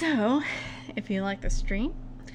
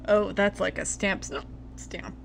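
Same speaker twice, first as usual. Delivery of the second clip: words broken by hiccups. Real, not acted. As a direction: talk through real hiccups. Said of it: "I promise this isn't drunk hiccups".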